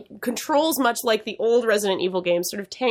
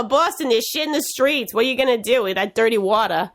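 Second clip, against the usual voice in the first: put-on Boston accent. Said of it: "I'll talk like a normal person".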